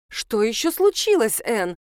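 plain reading voice

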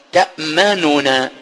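تأمننا slowly, both nuns sounded in full; original form with two nuns. Shown as a demonstration. Teacher showing the students the original double-nun form. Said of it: "فأصل الكلمة قالوا".

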